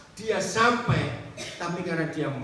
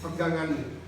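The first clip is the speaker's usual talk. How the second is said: voice of God; slower than usual. Acted. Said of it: "Tuhan bicara kepada dia".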